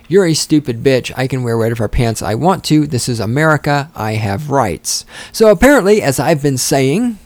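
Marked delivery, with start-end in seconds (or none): 0.1-5.1 lightly voiced teen yelling at mom, no real scream; a hint of a bratty son, slowing on rights; mock screaming son. Retelling the son screaming at his mother, mild mock yell. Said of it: "her son is screaming at her".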